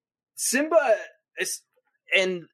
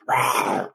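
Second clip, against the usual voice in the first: cute rawr. Retold or imitated. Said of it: "And he goes".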